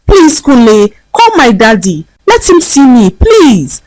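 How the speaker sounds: high, begging plea; pleading. A narrator's reading. Vanessa on her knees, begging the gateman. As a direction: beg on your knees. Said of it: "plead with him for help".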